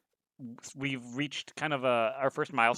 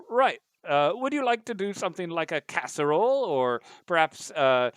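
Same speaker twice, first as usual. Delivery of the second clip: computer butler voice; 4 semitones higher, 3 dB louder than usual. Acted. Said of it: "It's like".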